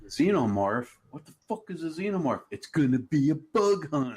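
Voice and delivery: lightly acted grunt, rising in disbelief; Hudson movie quote. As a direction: quote the movie marine with punch. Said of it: "one of the quotes was from Hudson".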